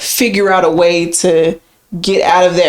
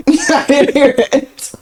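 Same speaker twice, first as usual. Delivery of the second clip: laughing denial; 7 semitones higher, slower than usual. Pretend. Mock denial while laughing.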